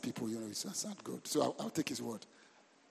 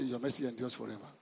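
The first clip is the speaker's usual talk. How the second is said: soft, low dutiful prayer; mock pious prayer; 5 semitones lower, 8 dB quieter than usual. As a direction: recite it quietly as a pious formula. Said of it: "if you just talk spiritual with God".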